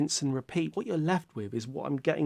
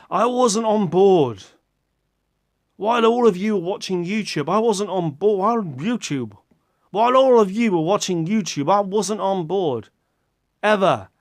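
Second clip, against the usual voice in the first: dramatic repetition; 4 semitones higher, 6 dB louder than usual. Acted. Repeated comic confession.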